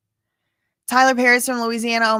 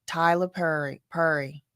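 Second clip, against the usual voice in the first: put-on Georgia accent; 3 semitones lower, 4 dB quieter than usual. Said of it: "That is a very Georgia way to say that".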